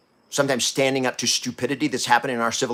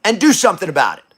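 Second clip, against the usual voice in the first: voice of anger urging; 5 dB louder than usual. Retold or imitated. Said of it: "Anger is the energy to say".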